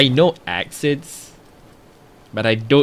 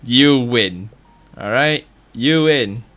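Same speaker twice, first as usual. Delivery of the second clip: frustrated shout; 3 semitones higher, 5 dB louder than usual. Real, not acted. Mock conceding to the game.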